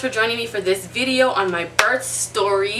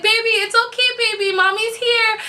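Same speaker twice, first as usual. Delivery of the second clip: tag retold soothing; 12 semitones higher than usual. Mother retells comforting her newborn.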